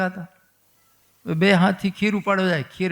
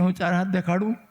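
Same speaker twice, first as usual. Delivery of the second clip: put-on child's innocent offer. Child Krishna offers mother to show four arms, innocent question. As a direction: ask lightly in the usual pitch, lifting at the end. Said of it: "Kanaiya કે".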